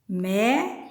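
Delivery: MÉ, DI, CO with long pauses; syllable by syllable. Shown as a demonstration. Teacher separates the word for fourth graders, syllable by syllable. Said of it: "se eu separo médico".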